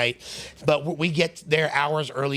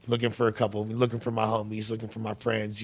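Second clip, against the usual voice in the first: playing innocent; 4 semitones lower, 6 dB quieter than usual. Plays innocent to the punks.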